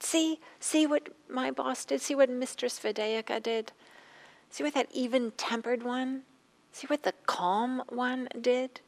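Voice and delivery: crying out to neighbors. Retold or imitated. Injured maid cries to neighbors.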